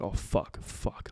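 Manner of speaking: breathless whispered fuck; horrified whisper. Retold or imitated. Family realising the missile is real, hushed whisper. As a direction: whisper it as it sinks in. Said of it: "we're just like".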